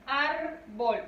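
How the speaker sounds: "Árbol" split in two, weight on ÁR; syllable-by-syllable "Árbol", first one strongest; stressed first syllable. Shown as a demonstration. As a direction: stretch the ÁR of "Árbol", then let BOL fall. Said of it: "recae ahí la mayor fuerza de voz".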